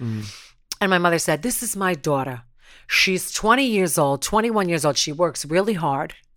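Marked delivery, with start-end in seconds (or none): 1.4-6.1 bad, horrible put-on Brooklyn accent. Imitating her mother speaking up for her about a return, horrible Brooklyn accent. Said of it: "It's a horrible Brooklyn accent".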